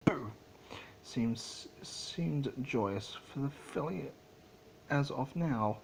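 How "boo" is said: a little filly's squeaky, giggly boo; squeaky laughing boo. Acted. Filly surprising her father with a squeaky laughing boo. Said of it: "A squeaky voice laughing".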